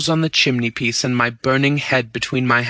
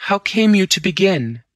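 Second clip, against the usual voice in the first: high, curious and eager; eager question; 8 semitones higher than usual. Acted. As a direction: lean in, fascinated. Bunny asks, curious.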